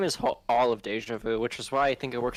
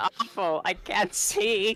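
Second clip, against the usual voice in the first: put-on small, high little child voice; 8 semitones higher than usual. Playing a character too short to see over the others; child voice. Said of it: "I have to do my child voice".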